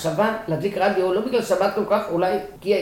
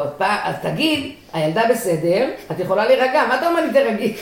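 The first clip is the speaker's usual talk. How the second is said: exasperated retort; 5 semitones higher, 4 dB louder than usual. Retold or imitated. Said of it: "ואז אני אומרת לו".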